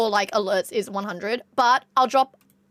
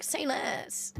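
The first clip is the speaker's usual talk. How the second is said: breathy whispered "Say less"; 2 semitones higher, 10 dB quieter than usual. Pretend. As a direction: whisper it like a secret deal. Eager reply to a sponsor.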